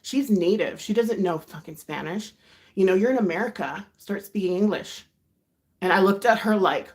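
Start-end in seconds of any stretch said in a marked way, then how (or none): 0.0-5.0 mildly heated retold scolding; firm, emphatic mock reprimand; telling off. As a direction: imitate a friend indignantly telling someone off. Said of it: "she told him off".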